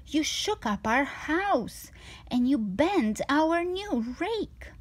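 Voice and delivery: a fussy little fish begging the cat away; worried fish. Acted.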